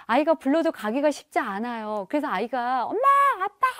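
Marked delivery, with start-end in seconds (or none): 2.9-3.7 put-on a kid calling for mom and dad; light child's call. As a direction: call out to your parents like a child.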